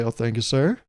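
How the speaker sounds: understated ironic thanks, slightly rising on sir; tongue-in-cheek. Shown as a demonstration. Thanking someone holding the door, tongue-in-cheek. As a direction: play lightly at polite grown-up thanks. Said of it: "kind of like a tongue-in-cheek".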